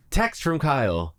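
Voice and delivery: slow flat robot readout; robotic voice. Pretend. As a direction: read it like car text-to-speech. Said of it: "in a robotic voice saying".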